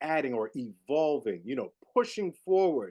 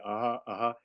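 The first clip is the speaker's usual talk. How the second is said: imitating A T; 3 semitones lower than usual. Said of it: "He's going like".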